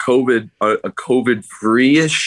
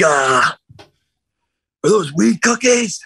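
much higher, wide-eyed stoned yell; imitating the tripping guy; 9 semitones higher than usual. Tripping guy calling out to the cookie sellers, high and eager. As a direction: squeal the question like a stoned kid. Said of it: "he's like".

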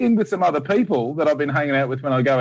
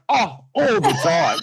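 much higher and slower, breezily cheerful; mock breezy; 11 semitones higher than usual. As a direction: toss it off like it's nothing. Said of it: "I'm like".

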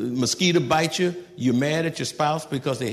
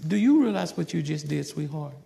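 softer, gentle correction; calm with a smile; 5 dB quieter than usual. Retold or imitated. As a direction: talk it through calmly with the child. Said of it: "tell your children with a smile".

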